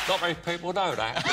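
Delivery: Michael Caine. Shown as a demonstration. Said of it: "I sound like this bloody moron".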